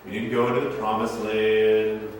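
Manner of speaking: slow mopey lament; mock moping. Israelites in booths moping, slow mock lament. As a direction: droop it like sulking mourners. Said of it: "everybody would go".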